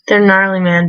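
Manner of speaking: laid-back surfer dude; slouchy surfer bro read. Acted. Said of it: "this douchey surfer dude voice".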